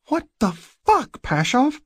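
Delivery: very high, startled angry cry; slow, loud, high-pitched fury; angry outburst. A narrator's reading. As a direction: burst out angrily, drawing out each word. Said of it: "She is very angry".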